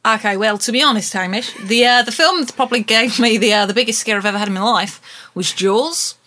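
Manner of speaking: put-on Australian accent. Guest tells Hamish about a film scare, put-on Australian accent. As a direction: answer in character as an Australian. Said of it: "I should stop this accent".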